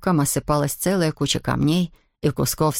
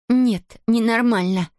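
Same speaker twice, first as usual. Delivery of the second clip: sharp, higher protest; snapping; 6 semitones higher, slower than usual. A narrator's reading. Girl refusing to leave her friend behind, sharp snap. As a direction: bite back at her firmly. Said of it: "рявкнула Зия".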